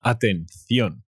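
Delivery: Atención said slowly with a lisped c, atenθjon; teacher models Atención for learners, slow and clear; slow Spanish model word. Shown as a demonstration. Teacher slowly models the Spanish word.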